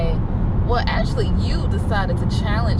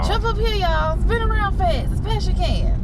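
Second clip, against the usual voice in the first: circus barker; 14 semitones higher than usual. Pretend. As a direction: bark it like a circus ringmaster. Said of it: "I feel like a circus monkey".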